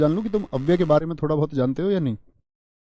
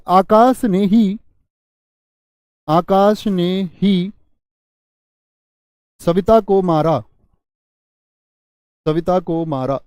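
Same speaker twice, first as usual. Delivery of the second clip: very slow, louder ही after आकाश ने; stress on ही; 3 dB louder, much slower than usual. Shown as a demonstration. Teacher demonstrating emphasis on ही to the class. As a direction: drag the words, punch ही. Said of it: "मैं बोल दूं ही".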